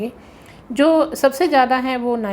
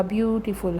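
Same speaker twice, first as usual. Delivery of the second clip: ब्यूटीफुल broken into ब्यूटी and फुल; split into pieces; 5 dB quieter than usual. Shown as a demonstration. Teacher showing syllables to students, ब्यूटीफुल split as ब्यूटी, फुल. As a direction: say ब्यूटीफुल in two separate chunks, ब्यूटी then फुल. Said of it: "इसको दो टुकड़ों में बोला".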